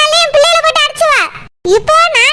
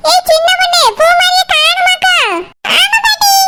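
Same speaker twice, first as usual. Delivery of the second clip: alarmed shout; 3 semitones higher than usual. Acted. Grandmother and girl shout about the missing child, alarmed. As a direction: call out in alarm.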